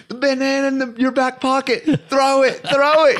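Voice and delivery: high, urgent call; mock yelling. Yelling to a friend chased by a baboon, high urgent call. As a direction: shout instructions across a distance.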